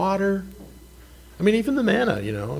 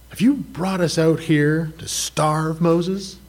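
murmuring Israelites; 4 semitones higher, slower than usual. Retold or imitated. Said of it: "they start murmuring".

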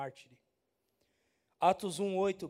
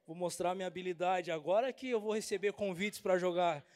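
excited retort. Retold or imitated. Pastor answering doubters, proud and excited. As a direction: proclaim it like a star. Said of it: "Eu falei".

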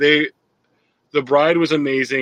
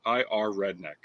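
mock redneck; 3 semitones lower than usual. Joking dumb redneck voice.

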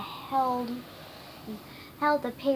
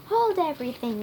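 raised voice, higher and louder; shouted; 4 semitones higher, 6 dB louder, faster than usual. A narrator's reading. Wizard calling a halt, shouted. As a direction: shout it out in the story. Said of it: "Wizard shouted".

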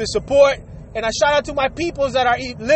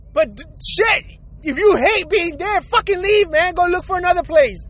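high, pleading angry rant; exasperated rant; 4 semitones higher than usual. Real, not acted. Host venting at workers who hate their jobs, exasperated. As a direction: vent it out, fed up.

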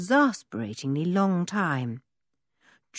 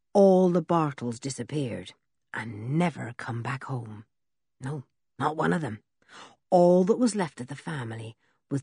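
lower, gruff country voice; rough old blacksmith; 3 semitones lower, 4 dB quieter than usual. Acted. Blacksmith Ben's voice.

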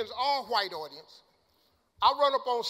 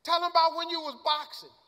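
higher-pitched heckle from the crowd; mock yell; 5 semitones higher than usual. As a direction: imitate a friend yelling out a prompt. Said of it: "the girl Gladys yelled out".

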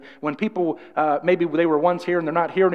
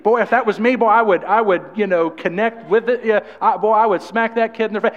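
louder, worked-up mock outrage; 3 semitones higher, 3 dB louder than usual. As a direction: play a dad who can't believe what he just heard. Imagined reaction to a backtalking kid.

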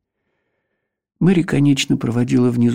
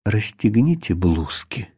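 calm; 2 semitones lower than usual. Acted. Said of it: "сказал он вдруг снова спокойно".

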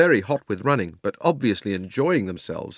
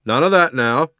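loud, higher official rebuke; stern; 5 semitones higher, 7 dB louder than usual. A narrator's reading. Policeman warning Uncle Andrew, stern and loud. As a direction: tell him off with authority. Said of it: "said the policeman sternly".

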